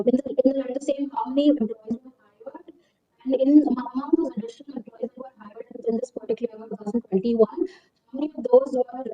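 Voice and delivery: ordinary talk, nothing marked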